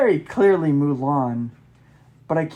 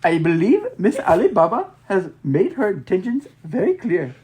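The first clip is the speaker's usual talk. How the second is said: cool gentleman voice; 2 semitones higher, 4 dB louder than usual. Acted. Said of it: "voice for tall, dark, and handsome".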